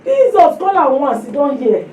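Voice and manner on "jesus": slow, high mock cry of Jesus; hammed-up panicked calling on God; mock panic prayer. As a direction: imitate a frightened believer calling out. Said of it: "prayer of panic".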